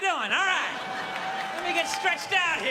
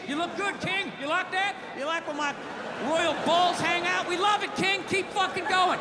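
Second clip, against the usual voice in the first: fawning yes-men; 5 semitones higher than usual. Retold or imitated. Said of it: "Nobody's saying shit".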